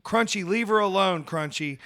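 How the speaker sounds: mock yell of a name across the ring; imitating her own ringside yelling; retold scream. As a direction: call out his name, half shouting. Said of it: "I just kept screaming".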